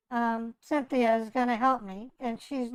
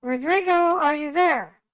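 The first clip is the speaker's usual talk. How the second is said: calling out; 2 semitones higher, 6 dB louder than usual. Real, not acted. Calling out to silent line.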